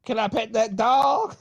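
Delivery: pinched-nose voice. Pretend. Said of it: "My nose hurts".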